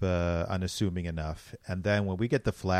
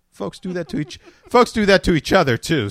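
higher, louder laughing words; 10 semitones higher, 11 dB louder than usual. Retold or imitated. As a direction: laugh through the line. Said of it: "I was just like".

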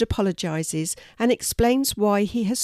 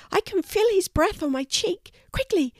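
very high, squeaky mouse voice; tiny mouse; 13 semitones higher than usual. A narrator's reading. Mouse asking Archie for help, high and squeaky.

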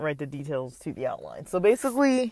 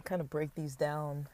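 talking between sips of water; speaking around a drink of water; while drinking water; 6 dB quieter than usual. Real, not acted. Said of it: "Sorry, I'm drinking water".

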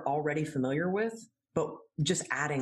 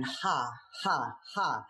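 fake laughter; 2 semitones lower, slower than usual. Shown as a demonstration. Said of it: "when you're going".

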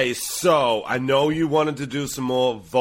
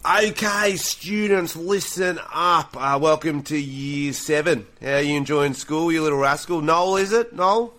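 teacher voice; 2 semitones higher than usual. Acted. Teacher role in improv.

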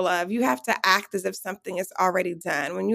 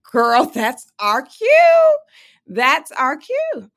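slow, louder, emphatic excitement; excited; 6 semitones higher, 8 dB louder, much slower than usual. Retold or imitated. Telling her friend it's time to walk in, slow excited. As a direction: savour it like the big moment arrived. Seizing the moment at the carpet.

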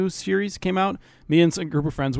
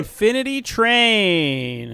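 dramatic announcer; 5 semitones higher, much slower than usual. Pretend.

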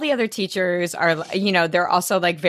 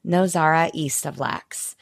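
smug snobbery. Retold or imitated. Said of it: "she's like".

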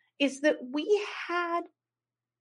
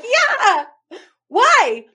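high, loud and innocent, voicing the giggly cousin; innocent high reply; 13 semitones higher, 10 dB louder than usual. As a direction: pitch it up like a clueless, happy friend.

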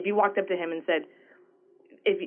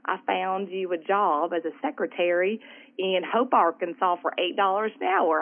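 Southern mom. Retold or imitated. Mom calling with a job offer, imitated Southern accent. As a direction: put on mom's sweet Southern accent. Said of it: "in her Southern way".

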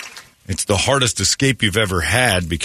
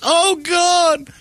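much higher mock groan of a grossed-out woman; disgusted lady. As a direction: play the lady behind, appalled. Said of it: "the other lady behind her goes".

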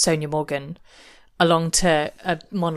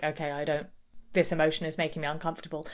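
uneasy; 3 semitones lower, 7 dB quieter, faster than usual. Retold or imitated. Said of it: "someone like Lydia is like".

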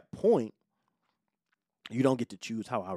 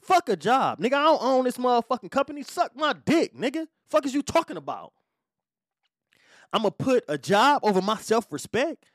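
higher, louder furious rant, relived; reliving the rant; 8 semitones higher, 3 dB louder than usual. Retold or imitated. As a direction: shout it like you're back in that truck. Retold blow-up at coworker on camera.

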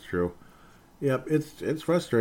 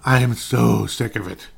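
emphatic; 6 dB louder than usual. Real, not acted. TikTok rant.

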